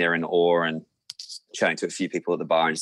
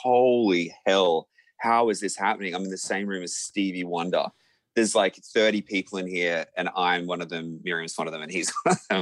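starstruck disbelief. Retold or imitated. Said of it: "I just was like".

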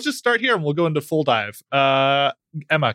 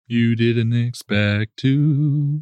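slow, lower menacing Death voice; grim reaper voice; 4 semitones lower, much slower than usual. Pretend. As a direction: drag it out like a looming reaper. Teasing in Death's voice.

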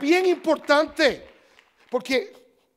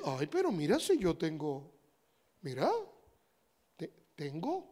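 hoarding believer; 7 semitones lower, 9 dB quieter than usual. Acted. Believer hoarding, voiced softly.

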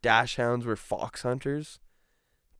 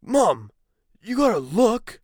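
higher, louder alarmed warning; dad's alarmed call; 10 semitones higher, 8 dB louder, slower than usual. Retold or imitated. Dad to grandma at the wheel, mock alarmed shout. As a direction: retell the dad yelling a warning. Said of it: "my dad's like".

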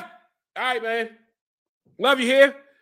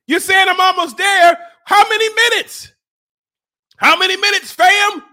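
high, raised demand; desperate yelling; 7 semitones higher, 4 dB louder than usual. Real, not acted. To viewers, asking how long is left, desperate yelling. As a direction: yell it out in rising desperation.

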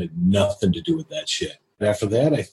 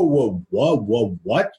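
stunned, swooping whoas; retold disbelief, pitch rising and falling; taken aback; slower than usual. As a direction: act out being thrown by an insult. Acting out his stunned reaction.

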